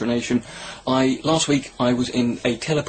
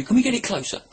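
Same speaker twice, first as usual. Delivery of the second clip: mock taunting shout; 9 semitones higher than usual. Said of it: "the Facebook page going".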